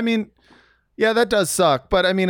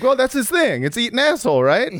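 imagined fans; 9 semitones higher than usual. Retold or imitated. Voicing imagined pushy fans.

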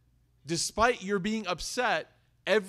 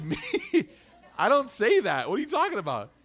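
mock shocked denial; 5 semitones higher, 4 dB louder, faster than usual. Mock indignant reply to son.

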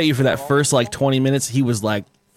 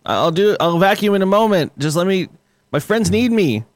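put-on kid pleading with mom; 5 semitones higher than usual. Acts gamer kid pleading with mom.

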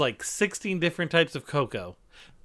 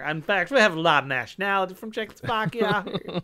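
raised, lightly put-on Idaho-Czech accent; mock Idaho-Czech accent; 3 semitones higher than usual. Local explaining the Czech connection, mock Idaho-Czech accent. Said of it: "We have very similar accents".

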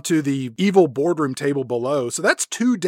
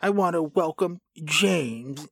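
Blofeld; 8 dB quieter than usual. Acted. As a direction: purr it quietly, savouring every pause. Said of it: "He says".

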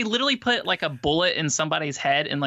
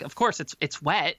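matter-of-fact. Retold or imitated. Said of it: "she's so matter of fact".

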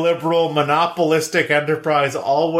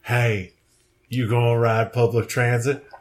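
Matthew McConaughey; 3 semitones lower than usual. Pretend. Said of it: "transmogrified into Matthew McConaughey".

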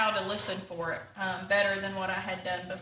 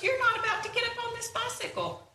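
higher and louder as the disaster fantasy builds, half laughing; worried Walrus spiraling; 7 semitones higher, 4 dB louder than usual. Acted. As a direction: let the panic climb line by line into hammed-up frenzy.

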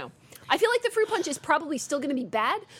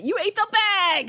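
loud, slow accusation; accusing; 8 semitones higher, 4 dB louder, slower than usual. Real, not acted. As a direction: call out the snack thief. Mock accusation over snacks.

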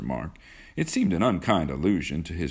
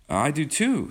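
higher, hearty agreement; 10 semitones higher than usual. A narrator's reading. John agrees with Kismine, heartily. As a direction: agree wholeheartedly, with lifted pitch. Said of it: "said John heartily".

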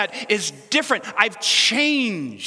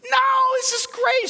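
emphatic no; 3 dB louder, slower than usual. Real, not acted. Emphatic aside about serving.

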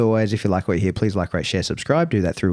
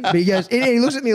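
laughing; 11 semitones higher than usual. Real, not acted. Laughing retelling.

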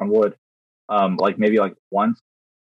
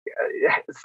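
disappointed sigh; 6 dB quieter than usual. Retold or imitated. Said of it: "sounding like a very disappointed parent".

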